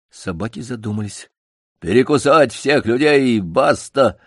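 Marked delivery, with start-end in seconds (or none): 1.8-4.2 озлобленный бас. Acted. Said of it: "брякнул Док озлобленным басом".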